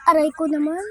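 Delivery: wincing in pain. Real, not acted. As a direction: say it hurting from the wound. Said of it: "Nagnana na ito".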